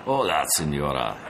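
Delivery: put-on a sugary, lightly Mexican-accented greeting; mock sweet Mexican bandit greeting; sweet thick Mexican accent. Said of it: "he said sweetly in a thick accent".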